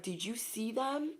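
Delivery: hushed, awed whisper. Retold or imitated. Onlookers gossip about you in a hushed whisper. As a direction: lean in and whisper it. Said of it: "They're whispering".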